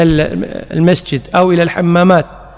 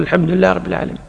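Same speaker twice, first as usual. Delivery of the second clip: softer and quicker repeat of "الحمد لله رب العالمين"; quiet follower; 6 dB quieter, faster than usual. Shown as a demonstration. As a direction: echo the imam under your breath, quickly. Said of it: "أنت تقول". (ترديد خافت وسريع خلف الإمام)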